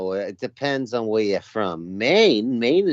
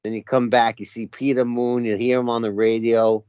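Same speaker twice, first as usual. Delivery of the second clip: Boston accent. Shown as a demonstration. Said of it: "The Boston accent is sort of like".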